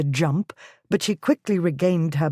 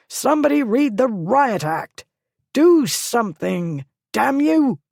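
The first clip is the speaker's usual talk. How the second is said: higher, loud desperate demand; frantic yell; 6 semitones higher, 3 dB louder than usual. A narrator's reading. Lord begging his servants to act, frantic yell. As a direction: keep screaming orders nobody can hear. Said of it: "he screamed".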